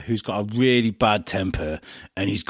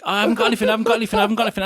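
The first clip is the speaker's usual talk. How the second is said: higher, repetitive mock panic; retold panic; 9 semitones higher, much faster than usual. Actor put on the spot with no idea, mock panic. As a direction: blurt it out, mildly flustered.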